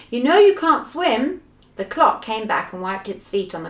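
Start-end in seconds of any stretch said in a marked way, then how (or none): 0.1-1.4 high, loud scolding call; raised, chiding shout. Acted. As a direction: call a warning across. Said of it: "called Silky".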